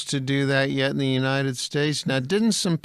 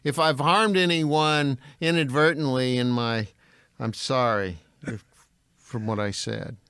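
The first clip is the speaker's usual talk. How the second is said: groveling apology. Pretend. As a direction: read it like a forced hostage statement. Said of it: "you did a very good job there of showing the groveling man".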